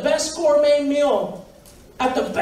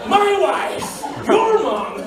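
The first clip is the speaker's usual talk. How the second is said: laughing yell; 5 semitones higher, much slower than usual. Real, not acted. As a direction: blurt it out through laughter. Laughing correction, shouted.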